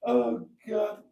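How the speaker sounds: high-pitched helpless laughing fit through the words; can't stop laughing, squeaking out the words; real laughter. Real, not acted. Reading a viewer's joke aloud, breaking into high laughter. Cracking up at Hubnutted comment.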